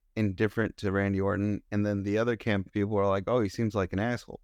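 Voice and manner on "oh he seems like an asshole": ordinary talk, nothing marked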